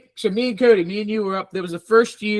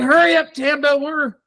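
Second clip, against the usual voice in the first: mock urgent yell; 7 semitones higher, 4 dB louder than usual. Urging Tam in story.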